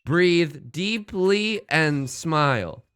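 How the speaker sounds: slow, measured poem reading; slow haiku reading. Shown as a demonstration. Reading the day's haiku to chat, slow and measured. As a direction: let each line breathe slowly. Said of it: "Next line".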